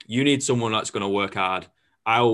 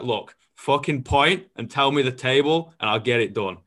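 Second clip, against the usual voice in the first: mock heated argument; 3 semitones higher than usual. Retold argument with chef.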